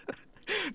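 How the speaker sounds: sudden high laugh at the clip; real amused laugh; burst of laughter. Real, not acted.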